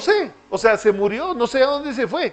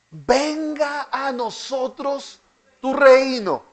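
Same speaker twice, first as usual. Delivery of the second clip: slow, higher plea of Venga a nosotros tu reino; drawn-out plea; 4 semitones higher, slower than usual. Shown as a demonstration. Teacher voicing the prayer's cry to the class, slow and raised. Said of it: "¿Cuál es el clamor?".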